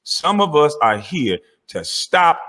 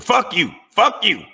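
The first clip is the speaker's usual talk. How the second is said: mocking; 4 semitones higher than usual. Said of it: "after the".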